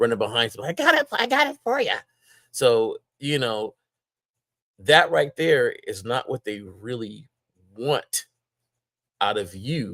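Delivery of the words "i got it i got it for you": very high, fawning, servile voice. Describing a man who always runs behind others, the speaker acts him out: put-on eager pushover voice. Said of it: "I got to put that voice on it".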